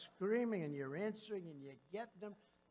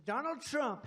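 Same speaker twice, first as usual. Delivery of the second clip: "Donald Trump" barked higher and loud like a headline; mock headline shout; 7 semitones higher, 7 dB louder, slower than usual. Speaker mocking a news headline, loud and high. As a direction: yell the headline in mockery.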